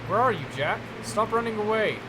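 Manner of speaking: loud, high calling out to find him; angry shout. Acted. Father shouting for hiding Jack, angry yell. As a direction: yell after the hiding boy. Abuser hunting for hiding child.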